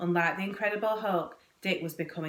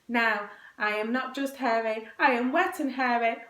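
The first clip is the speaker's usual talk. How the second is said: put-on higher-pitched whining child, building toward a wail; tearful; 5 semitones higher, 3 dB louder than usual. A narrator's reading. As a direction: complain tearfully, close to bawling. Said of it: "as tears streamed down his furry face".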